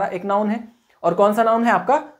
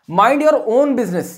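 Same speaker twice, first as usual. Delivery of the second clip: slow dictation; 3 semitones higher, 3 dB louder, much slower than usual. Shown as a demonstration. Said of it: "dictating example slowly".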